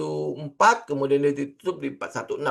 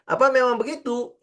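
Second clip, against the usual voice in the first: higher, questioning the easy claim; doubting question; 8 semitones higher than usual. Shown as a demonstration. Teacher questions whether trading is that simple. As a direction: pull it back with real doubt. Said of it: "ngomongnya simple kan?".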